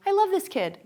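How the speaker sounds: put-on a teacher delighted with a child; delighted gush. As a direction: gush over the easy kid. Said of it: "already you're like".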